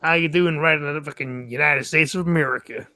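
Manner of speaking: a laughing fake American accent; a hint of American accent, laughing; mock American accent. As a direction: ham up an American accent for fun. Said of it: "don't do American accents".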